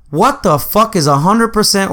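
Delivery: rude outburst. Retold or imitated. To the drive-thru worker, an indignant blurt. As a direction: blurt it out crude and indignant, then cut off mid-word. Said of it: "of course I didn't say it like that".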